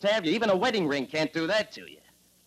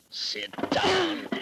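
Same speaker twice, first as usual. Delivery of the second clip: sharp order; 14 semitones higher than usual. Acted. Drunk husband ordering wife.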